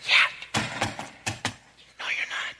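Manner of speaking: hushed, dry no; quiet deadpan reply. Retold or imitated. The Holy Spirit answering a proud believer, hushed. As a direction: drop it almost silent. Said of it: "And the Holy Spirit saying".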